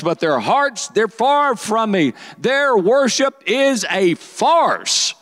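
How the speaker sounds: high, ringing scripture denunciation; dramatic rebuke. Acted. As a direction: preach it high, stretching the final accusation. Reading Jesus's rebuke aloud in performance.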